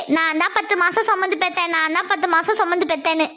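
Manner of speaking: mock repetition of a tired refrain; mocking imitation. Daughter throws mother's ten-months line back, mockingly. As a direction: mimic mum's stock line, slightly dropped pitch. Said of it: "இந்த ஒரு வார்த்தையை சொல்லியே".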